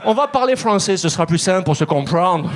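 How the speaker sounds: a cheerful salesman switching to French; lightly voiced New York salesman. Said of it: "Il me dit".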